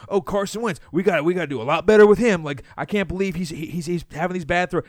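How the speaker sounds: a hint of a whiny coach; mocking coaches. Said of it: "you go".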